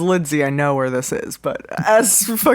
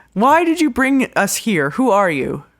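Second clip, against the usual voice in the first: angry, heated, rapid-fire delivery; 6 semitones higher than usual. Confronting a man who brought them here and offered drinks, the speaker yells furiously. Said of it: "I'm yelling because I can't hear, but also I'm fucking pissed off".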